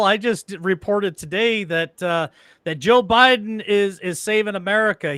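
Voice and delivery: sarcastic praise. Pretend. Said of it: "I'm saying this sarcastically".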